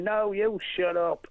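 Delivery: drawn-out mock scream at no great volume; slow, half-hearted retold yell. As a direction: imitate screaming back, stretching it slowly. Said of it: "I was screaming".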